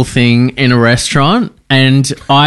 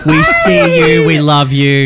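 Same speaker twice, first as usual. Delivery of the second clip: cheering shout-out. Real, not acted. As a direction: cheer it to the listeners. Shout-out to waiters.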